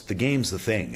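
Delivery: ordinary delivery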